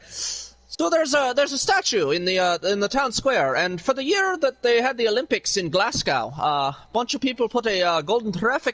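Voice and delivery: lightly put-on Irish accent; casual mock Irish brogue for laughs. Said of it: "I'm just really good at the accent".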